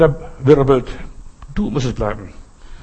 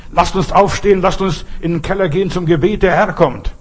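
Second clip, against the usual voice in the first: raised, urgent call to get up and pray; urgent wake-up call; 5 semitones higher than usual. Retold or imitated. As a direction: rouse the whole dorm at night, voice higher. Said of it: "klopft an alle Türen und sagt".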